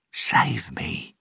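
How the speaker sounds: hushed, whispery plea; quiet aside. A narrator's reading. The captain secretly asks Will for rescue, quiet aside. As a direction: slip it out under the breath, whispered. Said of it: "said quietly out of the corner of his mouth".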